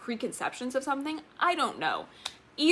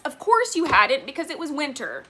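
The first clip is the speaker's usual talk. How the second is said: retold exasperated retort; 5 semitones higher, 5 dB louder than usual. Answering back to the author.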